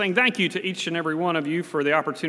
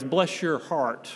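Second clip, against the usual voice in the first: Southern phrase; 3 semitones lower, 4 dB quieter, slower than usual. Retold or imitated. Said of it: "that famous Southern phrase".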